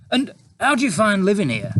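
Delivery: oozing fake praise; sarcastic reporter. A narrator's reading. Reporter character.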